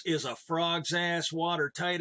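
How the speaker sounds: slow, deadpan, dead serious reply; matter-of-fact. Retold or imitated. Keaton answering the Japanese executives, matter-of-fact. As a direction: answer like it's obvious, slightly slowed. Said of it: "he just said it real matter-of-factly".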